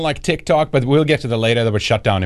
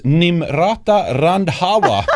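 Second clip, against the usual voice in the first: trying not to laugh; 7 semitones higher, much slower than usual. Real, not acted. Mocking her real name.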